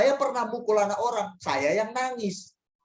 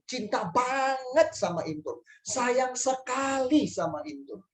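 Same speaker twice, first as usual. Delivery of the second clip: slow, higher, drawn-out declaration of love; affectionate reassurance; 4 semitones higher, slower than usual. Retold or imitated. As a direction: stretch the loving words out to reassure a child. Menegaskan sayang kepada anak yang dihukum. (penegasan sayang, pelan dan mendayu)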